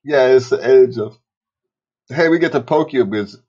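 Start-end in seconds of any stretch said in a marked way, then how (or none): 2.1-3.4 talking through hiccups; hiccuping between words. Real, not acted. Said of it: "Ooh, I got the hiccups".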